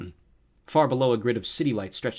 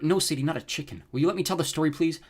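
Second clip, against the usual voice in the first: higher, exasperated aside to a sister; 6 semitones higher than usual. Acted. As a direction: fend off a teasing interruption. Interrupted by teasing sister while narrating.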